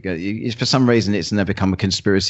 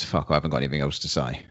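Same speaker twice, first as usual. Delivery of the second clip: mock inner voice; 5 semitones lower, 5 dB quieter, faster than usual. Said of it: "We have to agree to disagree generally means".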